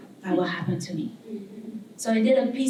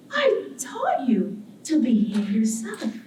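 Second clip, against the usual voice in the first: condescending island; slower than usual. Acted. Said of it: "very graceful, but yet condescending".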